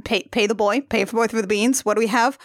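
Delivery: playacting dawning mock dismay at the beans; wife cons a boy over beans, hammed-up dismay; wife working the con. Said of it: "the one that's like".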